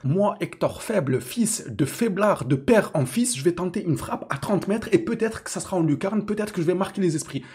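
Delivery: mimicking the defender's imagined thoughts; mock boastful player. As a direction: puff up like a deluded hero. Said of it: "il s'est dit".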